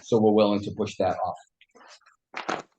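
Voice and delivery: losing voice, breathy rasp; worn-out whisper, slow; raspy whisper. Real, not acted. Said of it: "I'm losing my voice".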